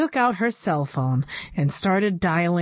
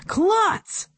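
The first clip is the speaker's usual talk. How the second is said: sharp yell, much higher; 13 semitones higher than usual. A narrator's reading. Board president yells at the principal, high angry yell. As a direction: bellow the name in outrage. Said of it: "yelled Doctor Carbles".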